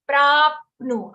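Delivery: "Prapnu" with a vowelless p and short nu; half pa, short nu. Shown as a demonstration. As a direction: stop on the p of "Prapnu", then a brief nu. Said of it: "we have half pa".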